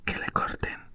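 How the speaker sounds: forceful cry kept to a whisper; whispered shout. A narrator's reading. Furious Queen ordering a beheading, mock shout in a whisper. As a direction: shout it under your breath, mildly. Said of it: "empezó a gritar".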